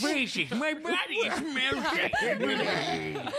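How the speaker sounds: high, slow, wobbly melting wail. Pretend. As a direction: stretch it out like you're dissolving. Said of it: "that's my melting voice".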